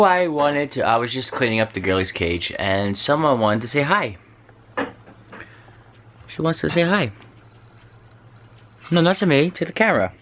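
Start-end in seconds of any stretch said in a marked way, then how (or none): 6.3-10.1 high, lilting pet-coaxing accent-free voice; pet talk. Real, not acted. Owner coaxing the pet to say hi to the camera, pet talk. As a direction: coax a little animal, pitched up.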